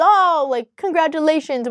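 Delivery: mildly mocking, a lightly sweetened fake cheer; fake congratulations. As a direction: imitate mom faking delight. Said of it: "my mom tried to play it off as".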